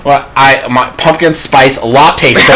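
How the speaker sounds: slow, overly proper speaking voice; white voice. Pretend. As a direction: sound prim and very proper. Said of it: "He wants us to do the white voice".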